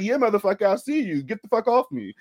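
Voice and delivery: high, heated mock outrage; mock fierce. Beatrice shoves off the exposed cyborg, high mock fury. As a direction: snap at him like she's caught him out. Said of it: "She's like".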